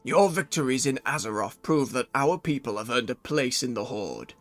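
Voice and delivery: low, gruff orc chieftain voice. Acted. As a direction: read it like an orc warlord. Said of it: "first morning orc voice".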